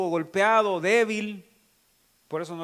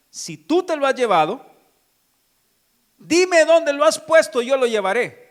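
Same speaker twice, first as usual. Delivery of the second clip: louder, higher, pleading with urgency; Mary's desperate plea; 6 semitones higher, 7 dB louder than usual. Acted. Mary begging the gardener for Jesus' body, loud and urgent. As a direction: beg him to give the body back.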